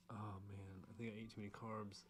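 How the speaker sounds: whispered, drowsy; sleepy whisper. Real, not acted. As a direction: breathe it out half asleep. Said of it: "I'm so sleepy".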